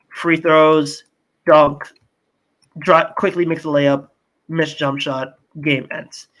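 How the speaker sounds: reading off a list in terse fragments; play-by-play read-out. Real, not acted. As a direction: recite each play, pausing between items. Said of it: "I'll read off what happens next".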